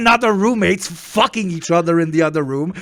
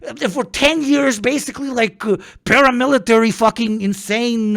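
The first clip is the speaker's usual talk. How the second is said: incredulous retelling; 7 semitones higher than usual. Retold or imitated. Acting out his reply in America.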